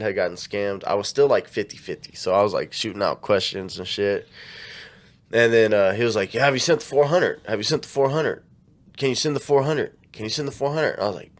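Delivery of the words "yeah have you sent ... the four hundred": mock pestering, same question on repeat; pushy nagging. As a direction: lightly imitate a pushy scammer. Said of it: "you kinda pushing for this shit".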